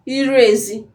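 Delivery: Iru ezi said with rising high tone; Igbo tones. Shown as a demonstration. Teacher modelling Iru ezi for learners, careful tones. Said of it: "Like outside the compound".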